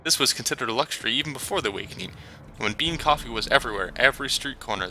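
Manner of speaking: Turkish vendor. Acted. Vendor praising his coffee.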